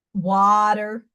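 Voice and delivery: Staten Island "water" with drawled vowel; demonstrating a Staten Island drawl; Staten Island accent. Shown as a demonstration. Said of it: "this Staten Island".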